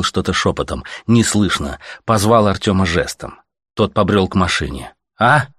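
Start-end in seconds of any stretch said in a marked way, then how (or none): 5.2-5.5 higher-pitched "huh?"; calling back. A narrator's reading. Artyom not hearing the stalker, calling back. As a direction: ask as if you didn't hear. Half-deaf hero calls back.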